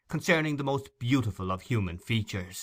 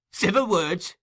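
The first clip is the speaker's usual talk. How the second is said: much higher, loud mocking cry; scornful cry; 9 semitones higher, 6 dB louder than usual. Nancy screaming Fagin's words back at him. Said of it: "cried the girl".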